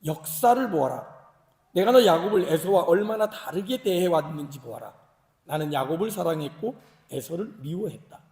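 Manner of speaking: measured declaration with emphatic swells; Bible reading. Acted. Preacher reading God's words to Jacob, declarative. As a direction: read out as God's pronouncement. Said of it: "제가 메시지 성경으로 읽어드리겠습니다".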